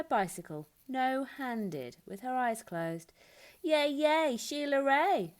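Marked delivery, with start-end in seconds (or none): 3.6-5.3 loud, high cheering; excited high shout of friends; cheering yell. A narrator's reading. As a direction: cheer her on like a crowd of kids. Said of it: "her friends yelled".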